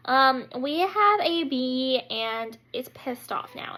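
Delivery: slow, careful confession; sheepish admission. Retold or imitated. Wife phoning husband about the bee, slow and sheepish.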